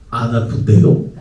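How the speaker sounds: put-on flat teen retort.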